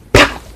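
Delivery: sharp burst of a pop; imitated pop noise. Imitating her ear popping as she pierced it, a sharp pop. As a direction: make a popping sound with the mouth. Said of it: "a really loud pop noise".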